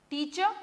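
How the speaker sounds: teacher-style demo of टीचर, R dropped; silent R. Shown as a demonstration. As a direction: say टीचर with the final R left silent. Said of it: "इसमें आर नहीं बोला जाता है".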